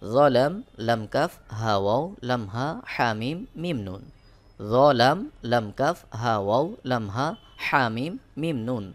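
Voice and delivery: steady letter-name chanting, each pair set apart; teacher chanting letter pairs to memorise; rote drill recitation. Shown as a demonstration.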